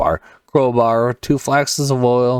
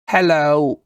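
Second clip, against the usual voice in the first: tentative, higher-pitched British hello; British accent; 5 semitones higher than usual. Shown as a demonstration. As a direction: try a light British accent. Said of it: "little British of an accent".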